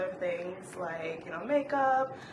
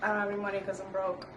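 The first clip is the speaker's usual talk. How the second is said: fast translation; 2 semitones lower, 4 dB quieter, much faster than usual. Shown as a demonstration. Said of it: "What does that mean in English?".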